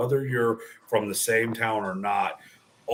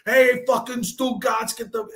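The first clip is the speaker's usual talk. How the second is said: mock cursing mid-sentence; 11 semitones higher than usual. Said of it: "nonstop back and forth".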